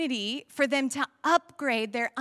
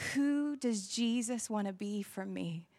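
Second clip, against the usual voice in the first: awed wondering. Pretend. Wondering question in a storm.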